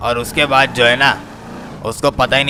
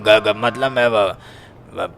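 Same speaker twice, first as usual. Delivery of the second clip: fighting to get a word out; slow sputtering stammer; 4 semitones lower, 3 dB quieter, much slower than usual. Acted. Yusuf still stammering at the nephew, slow halting sputter. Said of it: "क्या गर गर गर गर कर रहे हो".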